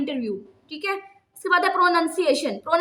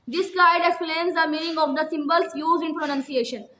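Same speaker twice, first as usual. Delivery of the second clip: slow dictation reading; much slower than usual. Shown as a demonstration. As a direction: read each word slowly for students to copy.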